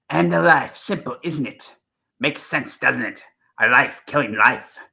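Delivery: a fan's hammed-up, mild take on the Seventh Doctor; Sylvester McCoy impression. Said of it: "I can do an impression of him".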